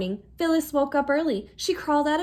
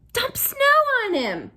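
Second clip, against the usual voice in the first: excited suggestion; 11 semitones higher, 5 dB louder than usual. A narrator's reading. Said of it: "Phyllis suggested".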